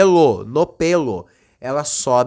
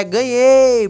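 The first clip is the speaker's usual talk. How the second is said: high, loud gloating cry; gloating cheer; 8 semitones higher, 4 dB louder than usual. Acted. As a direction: crow the win out high. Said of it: "já comemorando, né?".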